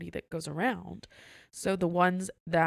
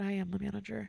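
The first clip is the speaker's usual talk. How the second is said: softer, unruffled retold reply; calm comeback; 2 semitones higher, 5 dB quieter than usual. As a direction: quietly pull rank on a difficult guest. Calm comeback to demanding guest.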